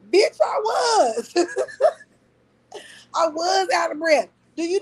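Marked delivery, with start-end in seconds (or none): 0.1-3.1 high, loud, laughing retort; loud laughing comeback; laughing outburst. Real, not acted. 3.1-4.3 laughing while talking; a laughing admission. Real, not acted. Laughing through retort.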